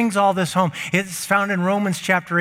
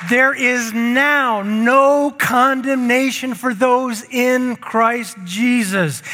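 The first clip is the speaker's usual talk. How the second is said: preaching at full force; 6 semitones higher, slower than usual. Acted. Preacher proclaiming the verse to the church. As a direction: ring the verse out over them.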